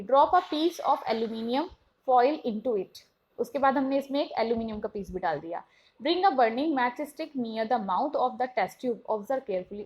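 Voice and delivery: very slow, careful textbook reading; slow classroom read-aloud. Shown as a demonstration. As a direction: spell out the question for students. Reads textbook instruction aloud.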